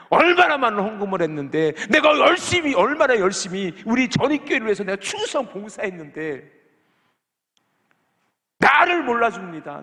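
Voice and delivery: high, loud, aggrieved cry; aggrieved plea. Retold or imitated. Believer complaining to God about going unrewarded, loud aggrieved plea. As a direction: cry out to God as one who feels unrewarded.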